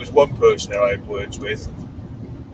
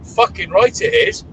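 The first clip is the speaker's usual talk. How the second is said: emphatic retort; 9 semitones higher, 4 dB louder, slower than usual. Retold or imitated. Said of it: "And I go".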